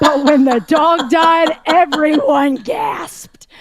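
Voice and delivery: loud, slow, drawn-out mock indignation; hammed-up accusing climax; emphatic punchline. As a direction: hammer it out high and loud, stretching each word. Comedian's punchline, retold at full force.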